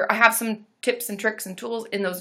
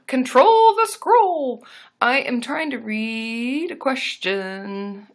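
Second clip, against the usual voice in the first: slow frustrated drawl; 3 semitones higher, much slower than usual. Real, not acted. Chat scrolling away.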